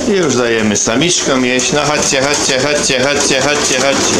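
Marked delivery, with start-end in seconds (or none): 1.7-4.2 higher, sing-song calling to feed; calling birds. Real, not acted. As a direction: call the hens in cheerfully. Calling hens to food.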